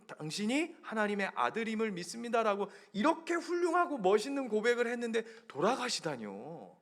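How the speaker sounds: indignant protest rising to a high outburst; acted scolding. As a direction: play Peter remonstrating with Jesus. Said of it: "예수님을 막 혼내는 거예요". (어이없다는 듯 높게 따지는 연기)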